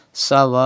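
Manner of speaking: "Sawa'un" with a long second vowel; elongated madd. Shown as a demonstration. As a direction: stretch the "waa" in "Sawa'un", then stop into "un". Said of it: "stretch up to five harakat".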